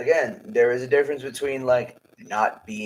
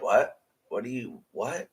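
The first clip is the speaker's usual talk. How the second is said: stunned; 4 dB quieter than usual. Retold or imitated. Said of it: "I was too stunned to speak".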